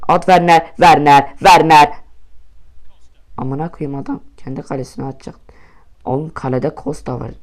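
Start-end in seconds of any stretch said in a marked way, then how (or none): 0.1-1.9 calling out. Real, not acted. Urging the player to shoot.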